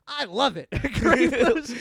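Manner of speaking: high, loud, laughing approval; delighted, egging him on; mock enthusiastic businessmen; gleeful execs. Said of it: "the other two guys are like".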